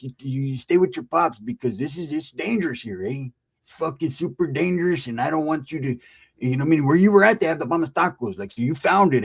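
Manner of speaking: lightly voiced barrio homie; a hint of Chicano street talk; OG norteño. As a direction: imitate an old-school homie warning a kid. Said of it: "he was an O G northerner".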